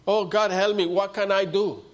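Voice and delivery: crying out. Retold or imitated. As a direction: act out a cry to God. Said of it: "and now he's crying".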